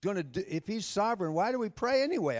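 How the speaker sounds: high-pitched, questioning protest; mock-exasperated argument; arguing with God. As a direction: challenge God, pitch jumping up on the complaint. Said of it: "I was arguing with him".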